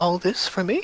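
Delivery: put-on small, sweet, soft little-girl voice. The speaker voices the Kenku being given bread and pears: sweet little girl's voice. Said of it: "it's like this like sweet little girl's voice says".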